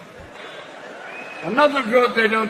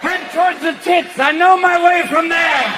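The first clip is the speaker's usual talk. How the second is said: put-on grumpy old man; 6 semitones higher than usual. Old sperm with walkers.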